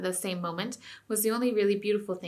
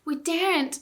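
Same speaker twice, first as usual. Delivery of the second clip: whimpered; 9 semitones higher, slower than usual. A narrator's reading. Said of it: "whimpered dozens of voices".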